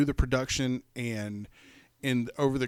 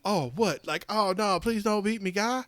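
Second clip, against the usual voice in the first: high mock-innocent dog voice; lightly voiced pleading dog; voicing the dog; 8 semitones higher than usual. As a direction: play the cowering dog, pleading. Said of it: "she's like".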